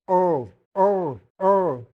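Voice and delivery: ओ said loud, rounded; ओ, round lips; German Ö. Shown as a demonstration. Teacher drills students, loud ओ. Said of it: "ऐसे ही बोला जाता है".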